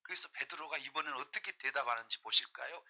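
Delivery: ordinary delivery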